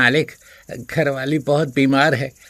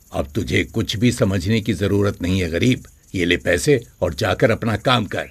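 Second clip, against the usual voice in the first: low, scornful dismissal; a hint of a contemptuous master; dismissive master; 5 semitones lower than usual. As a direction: brush the servant off.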